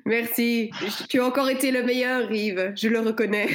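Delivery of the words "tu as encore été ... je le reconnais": mock film noir repeat. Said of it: "l'ambiance musicale".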